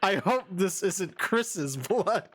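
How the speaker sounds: slow, laughing movie-line echo; laughing quote. Retold or imitated. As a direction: repeat the line while cracking up. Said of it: "repeating, what, like, the characters say".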